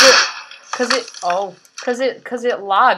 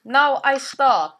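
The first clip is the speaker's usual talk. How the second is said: put-on heavy Russian accent menace; 4 semitones higher, 3 dB louder, slower than usual. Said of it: "Shut up, talking like that".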